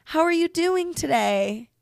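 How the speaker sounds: high-pitched, sing-out customer greeting; friendly greeter. Retold or imitated. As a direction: imitate a cheery stranger checking in. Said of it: "and someone's like".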